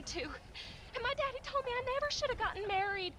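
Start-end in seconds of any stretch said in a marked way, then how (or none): 1.4-3.1 angry outburst. Acted. Wife berates husband in quarrel.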